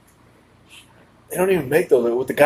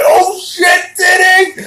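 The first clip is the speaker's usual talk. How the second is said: sudden high yell of shock; mock shout; 6 dB louder, much slower than usual. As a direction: blurt it out like a shocked teen. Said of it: "not to be like".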